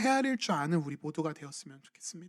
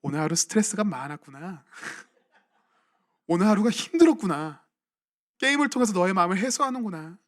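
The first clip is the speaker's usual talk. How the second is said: gentle comforting parent. Retold or imitated. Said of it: "어떤 말을 하냐면".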